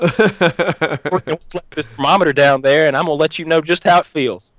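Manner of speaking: put-on drawn-out redneck accent; mock threat as a redneck prank caller; Roy D. Mercer. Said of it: "redneck accent".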